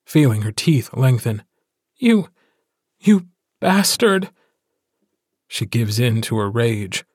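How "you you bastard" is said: much higher, louder furious cry; raging insult. Acted. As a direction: she lets her rage spill out at him. She gives in to her rage.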